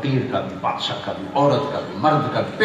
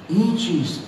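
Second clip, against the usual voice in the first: higher-pitched amazed question; astonished; 6 semitones higher than usual. Retold or imitated. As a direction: ask in stunned disbelief, pitch rising well up. Scholar stunned by dry books. (حیرت زدہ سوال)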